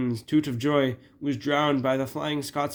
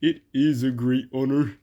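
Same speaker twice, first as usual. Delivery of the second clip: mildly pondering, firm delivery; thoughtful; 5 dB louder than usual. Acted. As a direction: weigh it up thoughtfully. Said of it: "said Duck thoughtfully".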